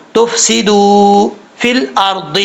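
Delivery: تفسدو فی الارض slowly, holding the oo; careful tajweed demonstration; lengthened vowel. Shown as a demonstration. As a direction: stretch the doo of تفسدو, then measured فی الارض. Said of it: "ایک الف کی مقدار لمبا کریں گے".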